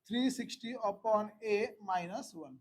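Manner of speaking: very slow formula read-out; drawn-out, deliberate teacher's dictation. Real, not acted. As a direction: dictate it piece by piece.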